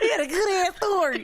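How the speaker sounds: laughing and echoing. Real, not acted. Echoing her friend while laughing.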